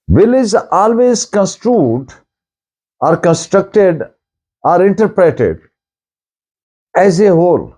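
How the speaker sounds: slow, deliberate dictation pace; dictating slowly. Shown as a demonstration. Law teacher dictating a maxim to students, slowly. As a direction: spell it out word by word for notes. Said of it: "teacher dictating legal maxim slowly".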